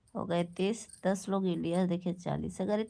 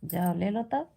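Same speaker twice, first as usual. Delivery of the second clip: yelling across the room; 4 dB louder than usual. Real, not acted. Calling to someone off-mic.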